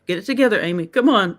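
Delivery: quick, laughing self-pep talk; rally yourself, half laughing; pep talk to herself. Real, not acted. Host steadying herself before her story, laughing. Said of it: "I gotta talk myself through this".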